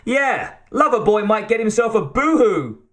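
put-on high-pitched babyish taunt; mocking baby talk. A narrator's reading. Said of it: "a veiled voice in baby talk".

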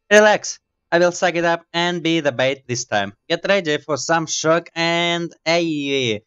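high, put-on heroine voice; heroine character voice. Heroine telling the crew she'll be bait, high character voice. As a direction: pitch it up as the heroine taking charge. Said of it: "Why she start talking like this?".

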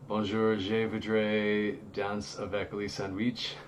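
French with a Southern American accent; playful bad French, Southern accent. Shown as a demonstration. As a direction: speak schoolroom French through a Southern accent. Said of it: "my southern accent came out in a huge way".

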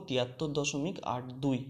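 "আট দুই" আলাদা করে, ধীরে, "বিরাশি" নয়; দশমিকের পরে "আট" আর "দুই" আলাদা উচ্চারণ করে ধীরে পড়ো; আলাদা আলাদা অঙ্ক পড়া. Shown as a demonstration. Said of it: "এটা বলবো". (শিক্ষক ছাত্রদের দশমিক সংখ্যা ঠিকভাবে পড়া দেখাচ্ছেন, ধীরে)

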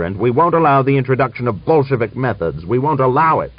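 loud, high-pitched furious tirade; angry shout. A narrator's reading. General berating his commander over disobeyed orders, shouting. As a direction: shout down an insubordinate officer.

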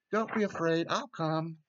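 lifted, encouraging comfort; firm reassurance. A narrator's reading. Jesus reassures and promises to come.

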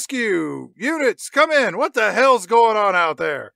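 mock radio hail; calling out. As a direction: call out for the rescue team on the radio. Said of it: "he calls out".

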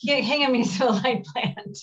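real amused stumble over a hard name; tongue-tied, laughing. Real, not acted. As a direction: stumble on the first word, then laugh through the name. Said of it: "It's a tongue twister".

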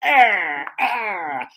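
"Ah" drawn out, strong and falling; carrot vowel. Shown as a demonstration. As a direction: open up and push out a stressed "ah". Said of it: "o carrot tem que fazer assim".

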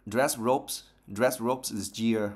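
"dress robes this year" slow, linking every S; careful pronunciation. Shown as a demonstration. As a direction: spell out each S in "Dress robes" slowly. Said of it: "Nó hơi, hơi nhiều S". (đọc chậm "dress robes this year", nối rõ âm S)

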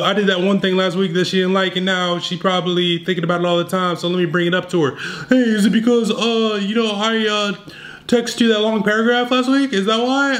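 mildly voiced nervous over-explainer; anxious beta dude.

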